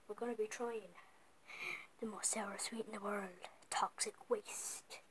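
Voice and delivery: hushed dramatic whisper. Acted. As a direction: whisper it like a secret. Dramatic whisper intro of candy.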